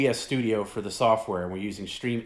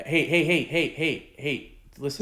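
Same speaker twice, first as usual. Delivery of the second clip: laughing; 4 semitones higher, 3 dB louder than usual. Real, not acted. Laughing to interrupt.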